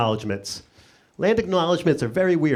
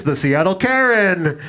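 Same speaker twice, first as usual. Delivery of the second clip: slow, drawn-out mock arena announcement; arena announcer; 3 semitones higher, slower than usual. Mock announcer introduces the team between hockey periods, slow and drawn out. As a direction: stretch the name like a hype announcer. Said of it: "they're like".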